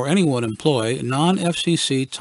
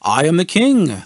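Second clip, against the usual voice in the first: mock assertion; 3 semitones higher, 5 dB louder than usual. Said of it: "I asserted".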